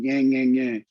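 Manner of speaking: nagging yang-yang noise; mock talking down. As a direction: imitate an adult lecturing down at kids. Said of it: "one of looking down, going".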